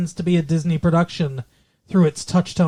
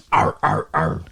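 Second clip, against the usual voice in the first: grunting arr; 5 semitones lower, 4 dB louder than usual. Retold or imitated. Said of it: "No, he's the".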